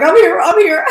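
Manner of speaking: high, loud laughing echo; laughing imitation. Host echoing Ashley's eager arrival, high laughing imitation. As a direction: echo her friend's call through a laugh. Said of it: "she's like".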